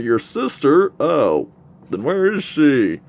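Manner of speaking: lightly voiced eager surprise; surprised question. Missionary learns of the sister.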